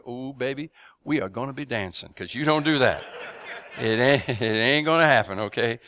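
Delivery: put-on loud, laughing cop's threat to a grabby drunk; mock tough warning. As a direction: bark a playful warning. Cop warning a drunk, retold.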